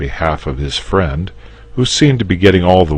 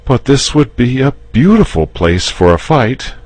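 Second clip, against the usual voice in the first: coaxing, higher and louder; persuasive; 10 semitones higher, 6 dB louder than usual. Acted. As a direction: sell him on the idea. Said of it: "he began again persuasively".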